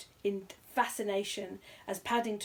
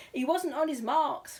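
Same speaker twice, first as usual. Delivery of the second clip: louder, aggrieved man's voice; cameraman crying out; 7 semitones higher, 6 dB louder than usual. Acted. Cameraman complains to the host, loud and aggrieved. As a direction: protest he spoiled the shot. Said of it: "cried the cameraman".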